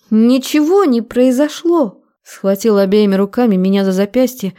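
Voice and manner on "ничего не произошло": high, drawn-out protest; higher, agitated character voice; distressed denial. A narrator's reading. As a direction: insist desperately in a raised female voice. Frightened woman denies under interrogation.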